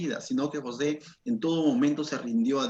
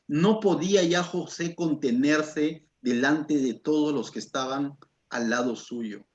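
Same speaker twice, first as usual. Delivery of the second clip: slow, measured Bible reading; scripture reading; 2 semitones lower, slower than usual. Acted. Preacher reads the verse slowly to the church. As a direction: read the verse slowly to the congregation.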